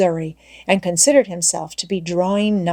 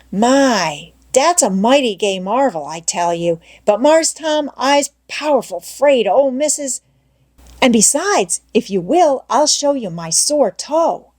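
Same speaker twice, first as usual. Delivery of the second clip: Jim in dialect; 5 semitones higher than usual. Acted. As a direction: plead you can't, Missus said no. Jim wavering, tempted.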